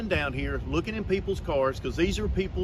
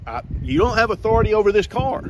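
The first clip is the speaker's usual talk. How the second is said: calm turning angry; 3 semitones higher, 5 dB louder than usual. Real, not acted. Officer escalates argument over car.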